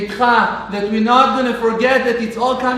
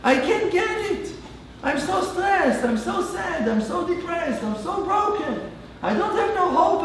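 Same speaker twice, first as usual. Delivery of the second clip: a quiet, heartfelt cry for help; pleading prayer; 5 dB quieter than usual. Pretend. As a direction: plead with God like a broken man. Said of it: "you need to tell him".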